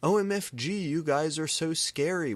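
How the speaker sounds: put-on high, loud valley-girl squeal; preppy squeal. A narrator's reading. Prep girl squealing at the scary goths.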